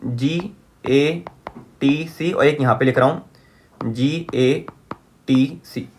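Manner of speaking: slow, spaced-out letters; dictating while writing. Real, not acted. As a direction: spell it out slowly as you write. Spelling out bases while writing.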